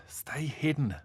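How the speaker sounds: urgent whisper, no voice; whispered warning. Acted. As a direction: hiss a warning to stay hidden. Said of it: "he warned the last mermaid".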